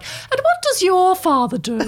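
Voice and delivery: put-on slow, prim old lady asking; a nosy old lady probing, slowly. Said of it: "sort of lines like".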